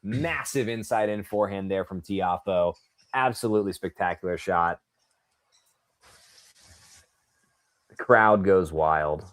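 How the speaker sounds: restrained commentary on a winning shot; understated broadcast praise of the shot; live play-by-play. Real, not acted.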